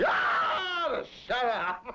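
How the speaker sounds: put-on high shouted yell at a child; retold angry yell. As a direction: bellow it so the whole street hears. Father's yell heard by neighborhood.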